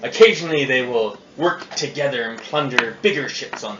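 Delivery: gruff pirate captain voice; pirate accent. Acted. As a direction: growl it like an old sea captain. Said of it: "this is Captain Flint talking".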